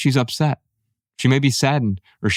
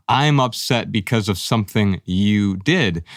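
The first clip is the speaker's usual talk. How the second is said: blaming quote; 2 semitones lower than usual. Retold or imitated. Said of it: "I start blaming the people".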